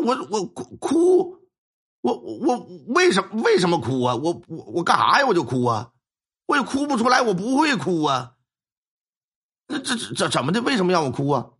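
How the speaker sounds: stammering, baffled and caught off guard; flustered stammer. Retold or imitated. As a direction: stumble over the words, confused why you must cry. Flustered reply to the old figure. (结结巴巴、一脸懵地反问)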